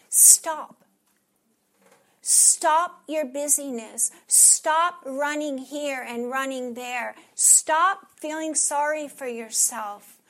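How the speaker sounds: loud, slow, emphatic command; slow forceful exhortation; firm command. Acted. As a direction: hammer each "stop" like an order. Voicing God's urgent command to stop.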